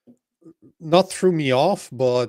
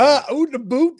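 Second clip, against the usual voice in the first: hammed-up Canadian accent, pitched higher and louder; mock Canadian accent; 9 semitones higher, 5 dB louder than usual. Teasing a co-host about the Fargo sheriff, Canadian accent. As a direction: lean hard into the Canadian "oot" vowel. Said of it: "That to me is the Canadian accent".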